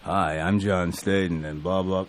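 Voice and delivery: low, slow, understated self-parody; half-hearted self-impression. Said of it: "very over the top John Staten impression".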